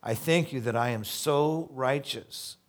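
loud, pompous mock Pharisee prayer. Pastor mocking a Pharisee on the street corner, loud and pompous. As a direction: ham up a self-righteous show-off praying. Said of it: "Pharisees standing on the corner".

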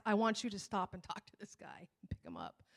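low-key, hushed voice of God; quiet prompting. Retold or imitated. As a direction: softly nudge him, as if inside his head. God quietly nudging the driver.

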